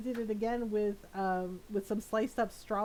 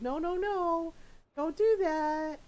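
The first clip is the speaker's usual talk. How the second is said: mock scolding parent; 5 semitones higher, slower than usual. Steph stopping baby grabbing food.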